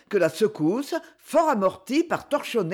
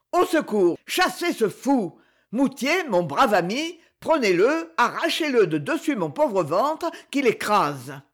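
cry for help; 3 semitones higher than usual. Acted. General crushed, calling for help.

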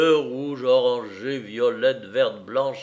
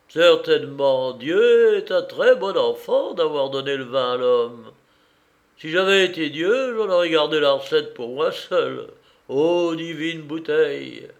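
put-on rapturous drunkard; 2 semitones higher, 5 dB louder than usual.

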